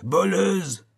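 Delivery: the accusation breaks into a shriek; shrieking cry. A narrator's reading. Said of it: "cria-t-il". (voleuse hurlé, beaucoup plus aigu)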